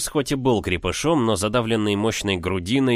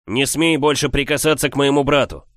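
angry; 5 semitones higher, 4 dB louder than usual. Acted. Hero warns giant.

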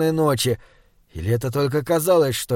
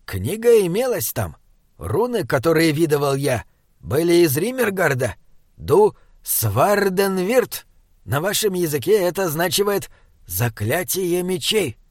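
lightly voiced Binabek. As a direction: lightly voice a companion translating an old title. Binabek explains the book's runes.

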